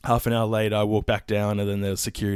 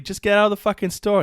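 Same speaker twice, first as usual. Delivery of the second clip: much higher, louder mock snap; retold telling off; 11 semitones higher, 6 dB louder than usual. Guard retells yelling at shoplifter, mock angry. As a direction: throw her out in a hammed-up rant. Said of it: "And I'm like".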